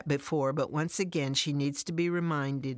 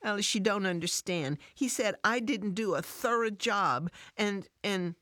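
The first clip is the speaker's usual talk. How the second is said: tearful; 5 semitones higher than usual. Acted. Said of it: "Tears start down Fran's face".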